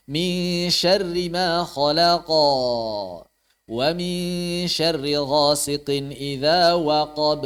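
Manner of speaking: slow recitation, "khalaq" and "waqab" trailing a long bounce; qalqalah dipanjangkan. Shown as a demonstration. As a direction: stretch the release after "khalaq" and "waqab". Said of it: "jangan dipanjangkan". (pantulan "khalaq" dan "waqab" dibaca panjang)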